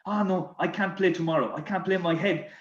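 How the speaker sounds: put-on French accent. French teammate refuses tomorrow's match over the bill, distressed French accent. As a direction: imitate a French footballer fretting, cracking up at the end. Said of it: "this bill with his French accent".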